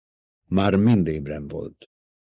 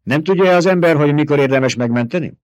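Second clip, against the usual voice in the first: higher, louder voice of a proud desert warrior; scornful fighter rejecting a bribe; proud Fremen warrior; 10 semitones higher, 8 dB louder, faster than usual. A narrator's reading. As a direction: Fremen warrior scoffing at being bought.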